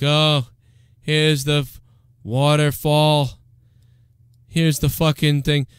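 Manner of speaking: lightly voiced listless host, dragging; mock a dejected radio host, words drawn out; Opie. Opie coming on air, mock listlessness. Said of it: "Opie came on like".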